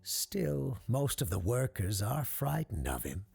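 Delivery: lightly voiced showman, pitch lifting theatrically; dismissive circus owner. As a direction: explain it away, then build grandly to the finish. Circus owner reassures, then builds.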